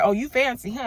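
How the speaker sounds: teasing mock. Friends teasing her about living in Buckhead, loud playful ribbing. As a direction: rib her like a friend impressed by money. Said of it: "y'all looking at me like".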